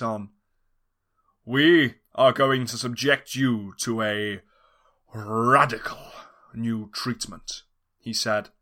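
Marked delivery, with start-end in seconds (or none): 1.5-7.6 slow, menacing mad scientist; a lightly voiced sinister scientist; slow villain drawl. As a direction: savour each word like a mad doctor. Villain explains the plan.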